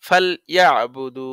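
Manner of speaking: ফালইয়াবুদু slowly recited, final "du" held long; recited one-alif stretch. Shown as a demonstration. Teacher demonstrating madd to students, slow stretched recitation. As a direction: draw out the last vowel of ফালইয়াবুদু. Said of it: "ভিতরে লইতে হবে".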